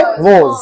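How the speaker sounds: "was" with a rounded o, like "woz"; correct pronunciation. Shown as a demonstration. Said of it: "क्या use करेंगे?".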